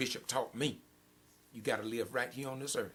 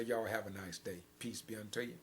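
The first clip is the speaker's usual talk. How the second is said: gentle sign-off; 3 semitones lower, 6 dB quieter than usual. Shown as a demonstration. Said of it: "And I'm gonna say".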